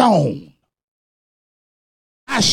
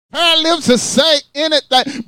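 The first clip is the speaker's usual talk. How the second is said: "Pair of lips will say anything" said higher, with stress on "Pair"; higher repeat; 6 semitones higher than usual. Shown as a demonstration. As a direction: lift the pitch and lean on "Pair". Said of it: "the way First Lady said it".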